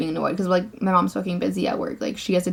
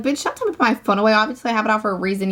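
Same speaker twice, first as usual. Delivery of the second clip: quick indignant clapback to the lady; retold angry comeback; much faster than usual. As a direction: fire it back at her quickly, indignant. Snapping back at staff member.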